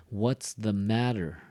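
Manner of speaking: slow phrase with "matter" as the strong word; stress on matter. Shown as a demonstration. Teacher showing the most important word, stressed. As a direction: lean on "matter", letting it fall. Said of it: "The most important word is matter".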